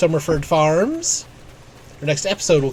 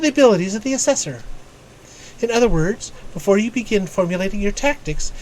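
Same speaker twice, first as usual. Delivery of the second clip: higher, crisply formal mentor voice; formal guild strategist; 4 semitones higher than usual. Acted. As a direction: read it as a learned tactician addressing a pupil. Reads game mentor's dialogue aloud.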